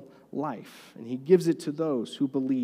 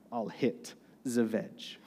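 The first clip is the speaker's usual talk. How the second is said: put-on French accent; 5 semitones lower, 8 dB quieter, slower than usual. Quoting French golfer Van de Velde.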